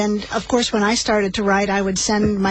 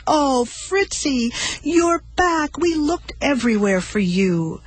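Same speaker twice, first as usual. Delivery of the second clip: slow, higher, tender welcome; tender relief; 6 semitones higher than usual. Acted. Mother scooping up her lost dog, tender and relieved. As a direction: hold the dog close, relieved.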